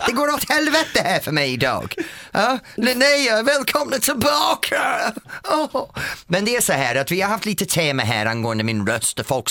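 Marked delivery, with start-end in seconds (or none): 2.3-5.9 high, slow welcoming call; host calling out a welcome back; excited welcome. Acted. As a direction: greet the listeners with a big call.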